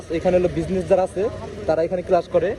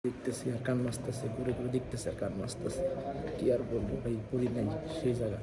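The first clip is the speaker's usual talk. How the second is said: mock sad; 4 semitones lower, 14 dB quieter than usual. Real, not acted. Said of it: "আবার কান্না আইতেছে".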